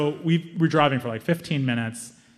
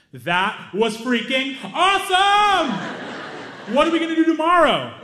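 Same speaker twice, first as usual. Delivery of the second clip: thrilled; 13 semitones higher, 4 dB louder than usual. Retold or imitated. Visitor gushing to his host about the day, thrilled. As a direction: gush like a kid after a ride. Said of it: "Hamza says".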